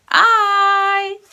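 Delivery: I called out loud and high; big voice. Shown as a demonstration. Teacher shouting sight words for kids to repeat. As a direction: shout the word out for the class. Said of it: "Big voice".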